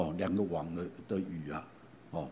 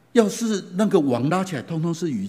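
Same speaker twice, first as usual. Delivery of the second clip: excited hope; 8 semitones higher, 8 dB louder than usual. Acted. Peter imagines a full net.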